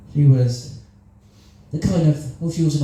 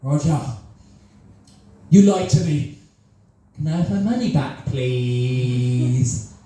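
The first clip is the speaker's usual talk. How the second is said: guilt-trip plea; slower than usual. Retold or imitated. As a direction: lay the guilt on thick, half joking. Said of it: "all the techniques I know to guilt people".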